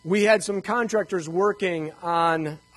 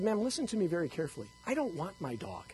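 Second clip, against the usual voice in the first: mock stern; 9 dB quieter, faster than usual. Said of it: "I said".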